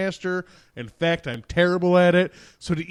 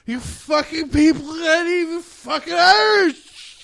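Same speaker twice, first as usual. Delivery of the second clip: put-on higher, louder grumbling bar drunk; miserable old drunk; 11 semitones higher, 5 dB louder, slower than usual. Old drunk at the bar griping at college kids in a mock drunk voice. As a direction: growl it like the bitter regular at the pub. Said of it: "You sound like the miserable old drunk guy at the bar".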